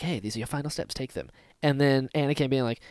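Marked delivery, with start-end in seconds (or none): 0.0-1.3 quoting Obi-Wan. Retold or imitated. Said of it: "Obi-Wan being like".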